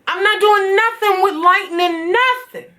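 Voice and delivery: high, tearful, close to sobbing; crying. Real, not acted. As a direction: voice breaking into tears. Venting, voice breaks into crying.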